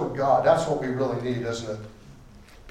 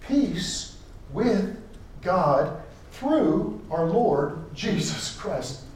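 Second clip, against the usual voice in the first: slow reading, leaning on "through"; stress on through; 2 semitones higher, much slower than usual. Shown as a demonstration. Preacher pointing the congregation to the word "through", slow and stressed. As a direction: draw out "through" as the key word. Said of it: "Circle that word, "through".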